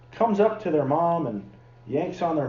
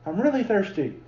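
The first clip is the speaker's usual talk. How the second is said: lightly voiced child, a bit higher; imitated kid; 4 semitones higher than usual. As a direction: mildly imitate your own kid insisting. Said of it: "sounds like a kid I know".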